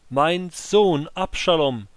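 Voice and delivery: weeping lament. Acted. Grieving king crying out for his son, weeping. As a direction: cry out his son's name in grief. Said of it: "er stieg weinend".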